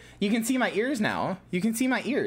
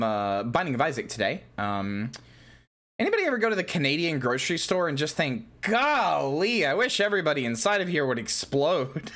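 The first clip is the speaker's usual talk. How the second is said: lightly voiced low streamer impression; Northernlion; 5 semitones lower than usual. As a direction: open casually low, rambling like a streamer. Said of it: "I'm coming out as Northern Light".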